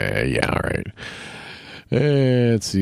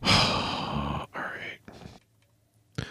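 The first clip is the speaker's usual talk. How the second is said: sighed, whispered all right; weary whisper; 9 dB quieter than usual. Real, not acted. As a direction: breathe it out, resigned. Sighing to himself while gaming.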